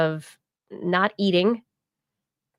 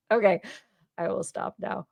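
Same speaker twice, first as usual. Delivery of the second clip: ordinary talk, nothing marked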